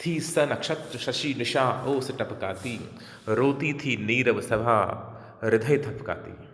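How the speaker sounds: slow, drawn-out verse with clear metre; poetry recitation. Acted. Teacher reciting the starlit night of the weeping assembly, slow recitation. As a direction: recite the lines slowly and rhythmically.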